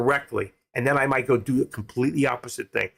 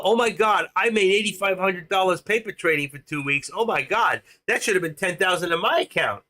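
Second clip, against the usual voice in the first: higher pitched, hammed-up gushing; mock excited gushing; 5 semitones higher than usual. Trader imitating his own giddy excitement over paper gains. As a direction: play the giddy trader bragging about gains. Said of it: "I do talk like this from time to time when I get excited".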